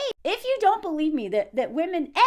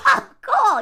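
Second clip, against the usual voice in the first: tag; 7 semitones higher, 5 dB louder than usual. Real, not acted. Sarcastic reaction to insult.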